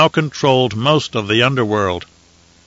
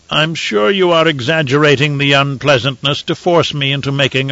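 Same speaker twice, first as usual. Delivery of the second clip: a lightly raised, measured imperial voice; Emperor; 2 semitones higher than usual. Acted. Emperor to the ambassadors, calm and lordly. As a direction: weigh it coolly from the throne.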